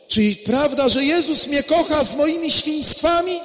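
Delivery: joyful realization. Pretend. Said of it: "joyful realization".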